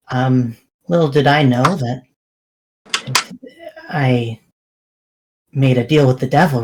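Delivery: resigned confession. Acted. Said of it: "sighs and says".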